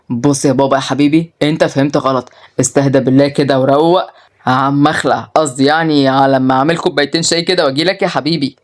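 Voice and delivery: low, mildly uneasy coaxing; nervous son placating. Acted. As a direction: sweet-talk an angry father.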